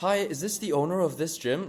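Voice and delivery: pushy salesman voice. Showing how a salesy call to a gym owner sounds: mock-salesy cold-call opener. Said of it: "you're not coming off as like salesy. Like".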